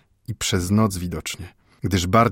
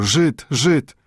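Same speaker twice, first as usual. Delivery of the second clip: a street ragamuffin's jeering high yell; mocking cry of Żyd, Żyd from a ragged boy; shouted taunt; 7 semitones higher, 5 dB louder than usual. A narrator's reading. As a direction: yell it after him like a taunting urchin. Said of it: "krzyknął na niego".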